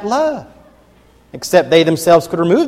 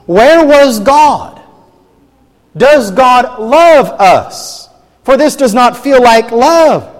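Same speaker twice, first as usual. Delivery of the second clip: slow, pained voice of a doubting believer; anguished questioning; 4 semitones higher, 5 dB louder, slower than usual. Retold or imitated. Preacher voicing suffering people, mild anguish. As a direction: voice the cry of someone who is hurting. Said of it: "what are people inclined to ask".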